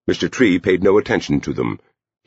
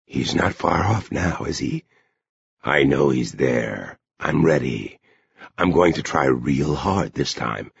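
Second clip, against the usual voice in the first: Bill; 2 semitones lower, 4 dB quieter than usual. A narrator's reading. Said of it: "Bill said restlessly".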